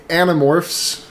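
ordinary delivery

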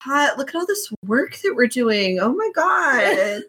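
high, put-upon fake exhaustion; mock whiny Huaisang. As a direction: moan like a pampered onlooker. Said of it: "wiping sweat off of his brow".

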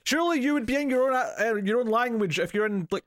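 high-pitched, incredulous protest; mock exasperation. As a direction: exclaim it in comic disbelief. Retelling exasperated reaction to film.

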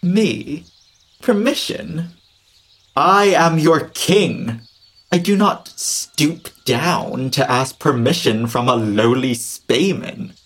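haughty king, slow and proud; roaring tyrant king. Acted. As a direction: look down your nose as king. King refuses to ask permission.

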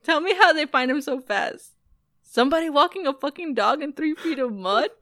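lightly voiced gangster rant; a hint of the angry gangster; recited movie line. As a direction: recite it half in character. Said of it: "And he's like".

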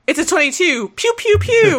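high, laughing pew pews; mock cosplayer. Host imitates TikTok cosplayer aiming a chicken, giggly. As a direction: squeak it out through laughter. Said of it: "cosplayer holding a chicken going".

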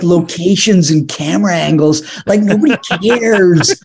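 imitated whiny dismissal; mock exasperation. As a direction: complain like a fed-up friend. Retold director complaining, bored by task.

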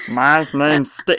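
slow, lightly voiced cartoon alien; a hint of back-of-the-throat creature voice; Stitch. Shown as a demonstration. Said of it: "everyone do a Stitch voice".

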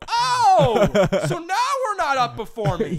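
high, loud sarcastic rant; mock outraged comeback. Son retelling his comeback to early-rising mom, mock outraged comeback. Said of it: "this is what I did this morning".

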